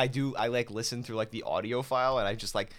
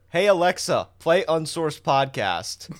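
raised, slowed command voice; calling out; 3 semitones higher, 6 dB louder, slower than usual. Retold or imitated. Dad ordering Alexa to play the podcast, loud imitation. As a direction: imitate someone calling across the room to a device.

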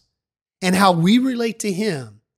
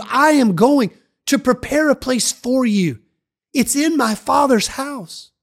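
encouraging; 3 semitones higher, 5 dB louder than usual. Acted. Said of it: "Jesus encouraged his disciples".

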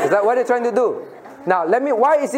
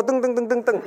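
playful tung tung; eyes dropping sound; 3 semitones higher than usual. Shown as a demonstration. Teacher imitating eyes dropping on the floor, playful sound. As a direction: mimic eyes falling to the floor with a bouncy tung tung. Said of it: "Drop on the floor".

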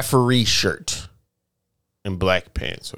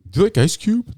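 mock white coworker; 10 semitones higher, 3 dB louder than usual. White coworker's question retold.

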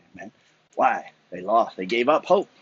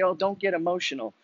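higher mock voice of naysayers; mocking critics; 5 semitones higher, 5 dB quieter than usual. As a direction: parody the scolding, softer. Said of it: "People say".

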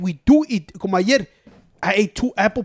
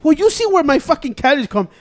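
retold heated retort; 5 semitones higher, 6 dB louder than usual. Mocking answer quoted to Tony.

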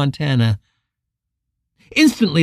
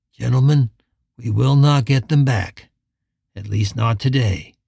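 lower, level and unhurried; calm steady leader; 4 semitones lower than usual. Acted. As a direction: explain it with cool authority. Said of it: "his voice calm and steady".

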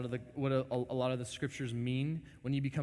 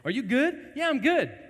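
high mock exchange; 12 semitones higher, 9 dB louder than usual. Wife dialogue.

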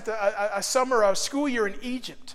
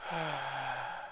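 strained gasping breath; 8 semitones lower, 12 dB quieter than usual. Shown as a demonstration. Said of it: "so I would breathe like this".

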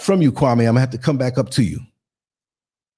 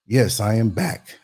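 laughing; 4 semitones lower, slower than usual. Real, not acted. Returns laughing from break.

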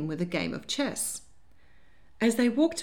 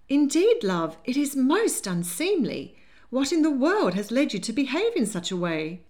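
put-on a flustered older lady clutching her pearls; fluttery Lady Hartwood; 7 semitones higher, 5 dB louder than usual. A narrator's reading. Lady Hartwood scolding her granddaughter, high and fluttery. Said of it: "Lady Hartwood, also present, added".

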